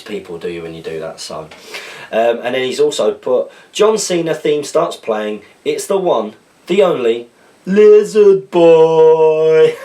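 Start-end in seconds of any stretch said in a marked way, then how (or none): 3.7-9.7 building to a loud, slow announcer bellow; wrestling announcer. Pretend. Reading a viewer's joke, hammed-up ring announcer building to a roar. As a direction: hype the entrance like a ring announcer, stretching the name.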